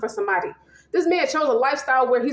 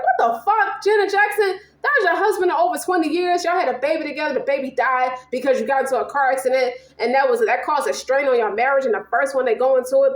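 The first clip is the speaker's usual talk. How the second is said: exasperated scolding; 3 semitones higher than usual. Retold or imitated. Scolding a singer over movie.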